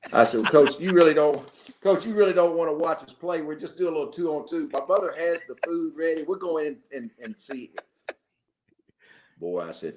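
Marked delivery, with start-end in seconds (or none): 0.4-7.7 higher-pitched polite protest, retold; pleading youngster. Player to visiting coach by the fence, pleading. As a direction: imitate a kid talking a coach out of it.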